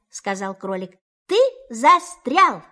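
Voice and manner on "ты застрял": Rabbit's voice. Acted. Rabbit declares.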